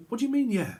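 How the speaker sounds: high, incredulous comeback; mock indignant questioning; indignant challenge. Acted quote of someone challenging the answer.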